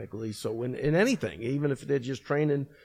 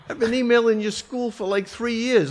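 higher, louder eager pleading; eager fan; 10 semitones higher, 6 dB louder than usual. Retold or imitated. Fighter pitching himself to the coach, eager. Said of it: "He's like".

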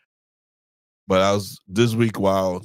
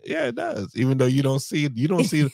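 "Yeah, it does" squeaked much higher, playful; teasing echo; 4 semitones higher than usual. Real, not acted. Husband teasing his wife about her faith, playful high squeak. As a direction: tease her, voice jumping way up on "Yeah".

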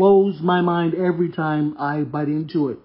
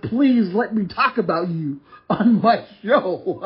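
retold pleading; slower than usual. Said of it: "I begged the guy".

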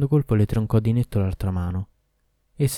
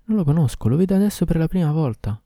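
put-on higher, pleading young woman; frightened girl; 8 semitones higher than usual. Girl denying to the Ifrit, higher and pleading. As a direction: lift into the girl's voice, denying. Girl denies knowing him.

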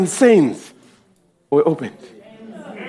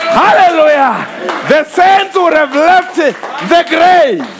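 preaching at full force; 3 semitones higher than usual. Acted. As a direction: shout the good news like phone calls. Preacher voicing phone calls.

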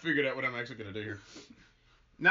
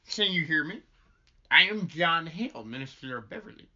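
higher, deliberate stage address; kindly minister; 5 semitones higher, 6 dB louder than usual. Acted. Minister introduces himself to dazed child, coaxing. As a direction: lift each opening as if rousing someone.

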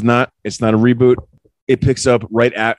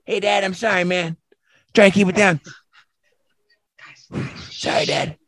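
high, lightly mocking sorry dad; mock sheepish apology; 10 semitones higher, 3 dB quieter than usual. Son apologizing to dad for the noise, high mock sheepish tone. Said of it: "But I'm like".

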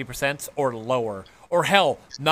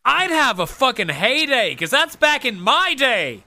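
excited; 9 semitones higher, 4 dB louder than usual. Real, not acted. Gleeful boast.

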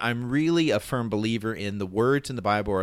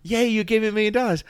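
much higher, fast, hammed-up delight; mock joyful cheer; 11 semitones higher, 4 dB louder, faster than usual. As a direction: pretend someone just handed you a fortune. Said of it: "I'm like".

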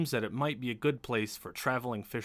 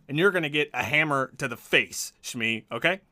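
gnome's threat; 3 semitones higher, 3 dB louder than usual. Acted. Gnome warning Shmee off, rant settling toward speech. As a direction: yell easing down into a firm warning. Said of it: "the gnome yells back".

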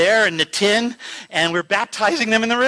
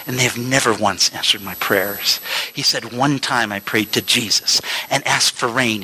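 put-on old man's testimony; 8 semitones lower than usual. Old man testifying to police.

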